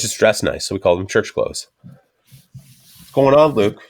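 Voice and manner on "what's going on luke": slow, drawn-out higher greeting; lazy drawn-out hello; mock greeting. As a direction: stretch it out like a dopey buddy. Retold friends greeting at door.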